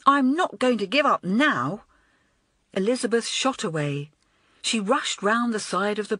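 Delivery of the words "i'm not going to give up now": louder, stubborn declaration; hot-headed. A narrator's reading. Girl refuses to leave her friends, stubborn and loud. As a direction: dig in your heels. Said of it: "she exclaimed hot-headedly".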